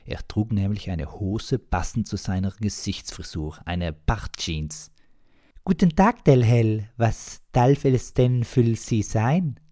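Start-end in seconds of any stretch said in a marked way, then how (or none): 5.7-9.6 put-on very high, loud and slow young host; innkeeper voice. Young innkeeper greeting a guest, very high, loud and slow. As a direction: greet the customer in a squeaky high voice.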